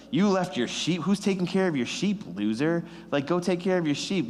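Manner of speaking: mocking brothers. Big brothers mocking David at the battle line, jeering. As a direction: taunt a little brother who left his sheep. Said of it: "and they mock him".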